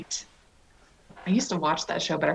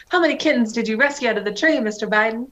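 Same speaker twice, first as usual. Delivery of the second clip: mock Southern accent; 3 semitones higher, 4 dB louder than usual. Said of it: "transitioned into a Scarlett O'Hara Southern accent".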